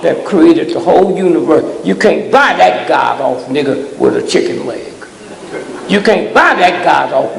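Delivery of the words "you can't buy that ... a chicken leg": shouted, with a punch on buy; the first take shouted, the retake calmer; shouted warning. Real, not acted. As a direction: hurl it at them as a warning. Preacher hammering at the crowd.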